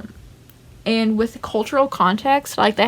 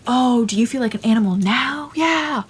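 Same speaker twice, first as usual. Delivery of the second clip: mock taunt, rising at the end; belittling; 3 semitones higher than usual. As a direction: taunt him, imitating the killer. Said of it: "totally belittling him".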